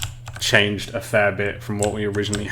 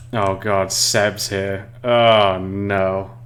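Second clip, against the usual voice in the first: mock dismay; 2 semitones lower, much slower than usual. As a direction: playfully groan at a friend's arrival. Mock dismay at colleague arriving.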